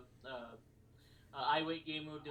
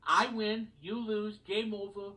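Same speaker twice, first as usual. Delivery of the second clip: gloating; 5 semitones higher, 7 dB louder, slower than usual. Retold or imitated.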